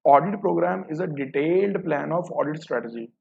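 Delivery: reading the option out slowly, word by word; slow, deliberate reading of an exam option. Shown as a demonstration. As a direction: dictate the option slowly for the class. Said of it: "पहले तो देखो first option".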